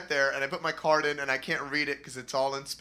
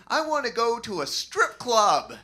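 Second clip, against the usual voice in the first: eager brother; 9 semitones higher, 6 dB louder than usual. Retold or imitated. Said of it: "And he goes".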